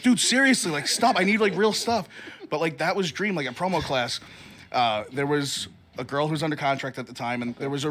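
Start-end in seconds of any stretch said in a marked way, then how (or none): 0.0-2.1 louder and higher, mock exasperated friend; exasperated plea. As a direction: pretend to beg him to get serious, raised voice. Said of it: "And he's like".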